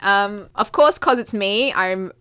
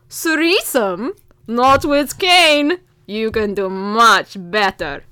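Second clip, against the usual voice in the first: put-on slow, amused Russian accent, louder; 3 semitones higher, 7 dB louder, slower than usual. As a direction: drawl it like a teasing Russian roommate. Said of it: "read this with the accent".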